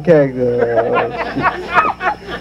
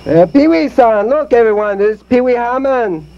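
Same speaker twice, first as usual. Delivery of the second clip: lightly voiced mock Asian kung fu master; hammed-up stage host voice; a hint of a put-on master voice; ventriloquist act host; 6 semitones higher than usual. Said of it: "here's my ventriloquist act".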